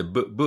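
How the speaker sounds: "v" said as "bu" with lips together; B sound demo. Shown as a demonstration. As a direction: pop "v" out as a B. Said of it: "唇を合わせて、".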